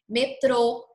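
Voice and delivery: closed final vowel in "metrô"; closed stressed vowel. Shown as a demonstration. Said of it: "o som já ficou mais grave".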